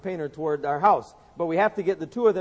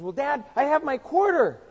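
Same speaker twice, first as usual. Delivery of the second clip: put-on little boy voice; 8 semitones higher, 4 dB louder than usual. Preacher voicing Johnny begging his daddy, higher child voice. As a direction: beg like a six-year-old wanting a bike.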